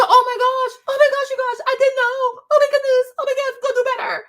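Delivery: high, loud, fast flustered apology; mock groveling apology. Mocking a brand owner apologizing in a high panicked voice. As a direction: parody a panicked brand owner begging forgiveness.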